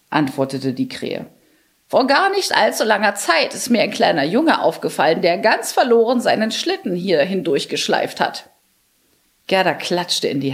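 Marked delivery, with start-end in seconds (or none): 1.9-8.5 lightly voiced helpful crow, a touch higher; a wise old crow telling what it saw; storybook crow, mildly higher pitched. Crow character speaking.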